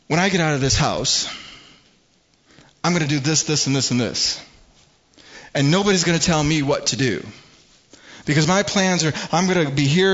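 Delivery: mock rebellious teenager shouting back; angry child ranting. Pastor voicing a defiant child yelling at a parent. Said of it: "they start saying".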